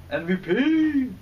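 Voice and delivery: high, loud, drawn-out shout; stretched-out triumphant holler; excited shout. Real, not acted. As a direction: sing out the letters in a long, high cheer. Excitedly calls out partner's name.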